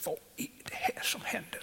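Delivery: viskat och högt, häpet; förundrad viskning. Retold or imitated. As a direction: viska frågan förbluffat. Retold thought at prayer meeting. (nyfrälst viskar häpet under förbönen)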